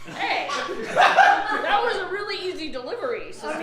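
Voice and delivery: sassy. Acted. Sassy character call-out.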